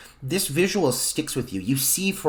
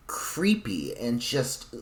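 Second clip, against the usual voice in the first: hushed, breathy aside about the creepy scene; spooky whisper; 6 dB quieter, much slower than usual. Real, not acted. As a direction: drop to a whisper as if it still scares you.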